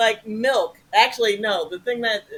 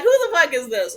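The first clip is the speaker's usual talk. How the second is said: suspicious snap; 4 semitones higher, 4 dB louder than usual. Retold or imitated. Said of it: "I literally said that to Bob".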